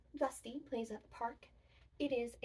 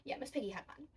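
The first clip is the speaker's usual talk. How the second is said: whisper; 2 semitones higher, faster than usual. Acted. Puppet play whisper to class.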